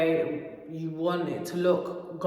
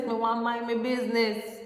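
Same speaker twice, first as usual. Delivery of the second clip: put-on West Indian accent; 5 semitones higher than usual. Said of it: "it's the West Indian accent".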